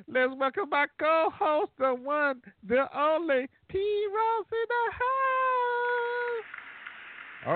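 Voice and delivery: high, hyped-up announcer call; announcer intro. Acted. Host introducing co-host P Ross, hyped announcer call. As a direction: bring her in like a big introduction.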